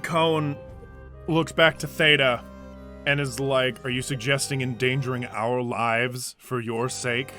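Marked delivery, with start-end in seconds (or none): 3.9-7.3 low, soft accusing question; low confrontation. Acted. Cone turns back to Theta, low soft challenge. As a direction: question them quietly, pitched down.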